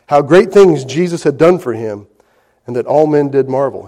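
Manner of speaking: formal King James reading; scripture reading. Acted. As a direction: read the verse out to the congregation. Reads scripture aloud.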